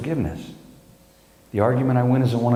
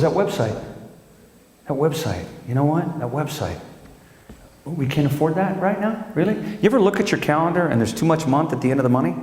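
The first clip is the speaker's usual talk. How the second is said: higher nagging wife voice; imitating wife; 5 semitones higher than usual. Comedian voicing his wife scolding over the website. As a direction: nag about the website. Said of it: "She goes".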